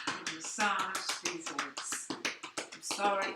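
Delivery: words stretched through a real yawn; slow, yawning through the words; tired yawn mid-instruction. Real, not acted. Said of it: "I'm yawning".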